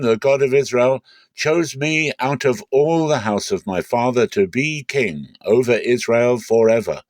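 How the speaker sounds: a king standing to speak to his people, voice lifted; King David's address. Acted. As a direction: speak up high and strong like a king before his court.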